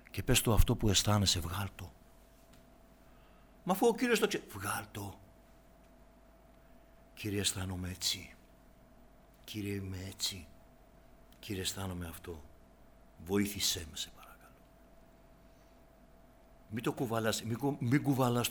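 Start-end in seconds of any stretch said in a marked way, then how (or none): 3.6-4.4 a hint of a skeptical believer, pitched higher; lightly voiced objection, questioning; doubting objector. Imagined listener objecting to preacher. 7.1-12.4 softer, humble voice praying to God; quiet prayer. Pretend. 13.3-14.6 whispered, begging for help; whispered plea. Pretend. End of voiced prayer, pleading.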